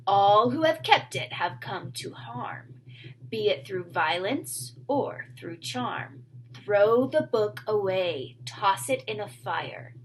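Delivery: slow, hushed creature warning; lightly voiced sprite chanting a warning; a hint of an eerie little man; ominous rhymed warning.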